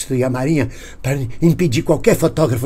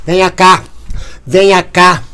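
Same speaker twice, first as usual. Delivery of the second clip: challenge; 4 semitones higher, 5 dB louder, slower than usual. Retold or imitated. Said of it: "ele dizia".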